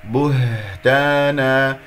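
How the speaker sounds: بهتانا drawn out slowly with a clean, flowing h; correct ha. Shown as a demonstration. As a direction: let breath run through the h of بهتانا. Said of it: "هكذا".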